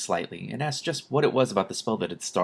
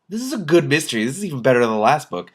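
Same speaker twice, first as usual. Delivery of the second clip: excited aside; 6 semitones higher, 6 dB louder than usual. Real, not acted. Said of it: "reader's own excited aside".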